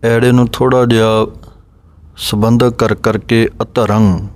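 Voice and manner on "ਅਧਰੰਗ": ਅਧਰੰਗ with the ਐੜਾ joined to the next sound; a smooth, linked ਅਧਰੰਗ; correct Gurbani pronunciation. Shown as a demonstration. Teacher giving a model ਅਧਰੰਗ for students to copy. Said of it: "ਇਸ ਤਰ੍ਹਾਂ ਬੋਲਣਾ ਹੈ".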